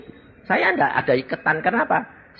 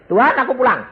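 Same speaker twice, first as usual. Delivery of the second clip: calling out; 11 semitones higher, 4 dB louder, faster than usual. Retold or imitated. Calling out to Jesus in heaven.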